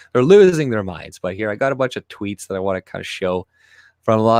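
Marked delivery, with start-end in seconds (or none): 0.1-1.2 laughing. Real, not acted. Laughing repeat of the phrase.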